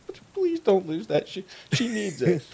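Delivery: put-on very high, small pleading child; young girl. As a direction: plead in a little girl's voice. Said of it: "the girl hears you guys saying this".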